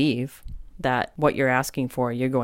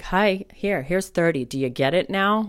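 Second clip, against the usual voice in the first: exasperated spirit; 4 semitones higher than usual. Pretend. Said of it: "kind of throwing it at me".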